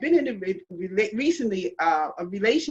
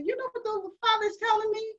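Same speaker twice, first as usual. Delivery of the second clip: voice of the Father; 6 semitones higher than usual. Retold or imitated. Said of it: "the Father just spoke to me".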